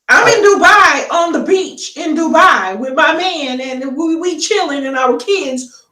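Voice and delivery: high-pitched, playful holiday boast; carefree vacationing wife. Acted. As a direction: play the unbothered wife living it up on the beach. Acting a wife enjoying Dubai holiday.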